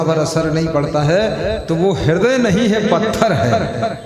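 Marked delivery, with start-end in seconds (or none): 1.6-3.9 louder and higher, hammering the point home; forceful proclamation. Real, not acted. Preacher thundering to the congregation, loud and higher. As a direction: declare it with full force. Emphatic sermon climax.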